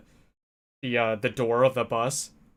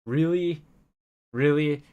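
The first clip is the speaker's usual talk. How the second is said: high, incredulous "really?", stressed twice; can't believe what she's seeing; exasperated disbelief; 4 semitones higher, slower than usual. Retold or imitated. Watching an old lady shove onto the bus, incredulous. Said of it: "I was like".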